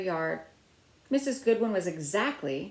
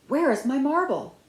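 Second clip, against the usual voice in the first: loud, high demanding yell; 7 semitones higher, 7 dB louder than usual. A narrator's reading. Missus Goodwin yelling at the door in Penny's dream. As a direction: shout it through the door.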